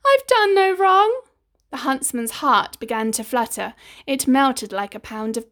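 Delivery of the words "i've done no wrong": high, loud desperate cry; pleading cry. A narrator's reading. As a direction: cry out in terror. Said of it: "She cried again".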